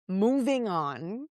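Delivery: slow, stretched moving on; drawn-out. Shown as a demonstration. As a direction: drag the words out deliberately. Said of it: "repeated slower".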